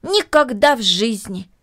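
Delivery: confident. Acted. Boy answering the girl's question, firmly confident. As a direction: state it firmly, leaving no doubt. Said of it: "уверенным голосом".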